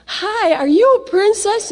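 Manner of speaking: put-on high, sing-song greeting to a little girl; lightly sweetened child-talk question; sweet voice to a child. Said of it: "I asked my niece's daughter".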